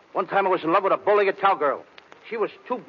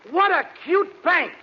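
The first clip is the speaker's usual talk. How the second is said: giggly; 10 semitones higher than usual. Acted. Ogling, giggly.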